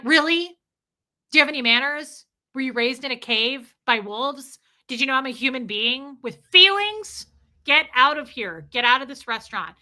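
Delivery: loud, outraged mock scolding; indignant telling-off. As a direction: tell off a rude customer and throw them out. Acted telling-off of rude customer.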